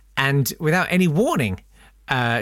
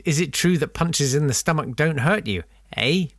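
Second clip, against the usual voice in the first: put-on Canadian accent; 2 semitones higher than usual. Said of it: "my Canadian accent".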